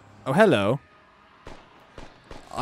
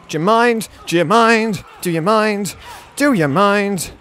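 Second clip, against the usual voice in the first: loud, higher, repeated demand; exasperated shout; 5 semitones higher, 5 dB louder, slower than usual. Real, not acted. Player yelling at an NPC in the way, exasperated loud shout. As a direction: yell it over and over at them.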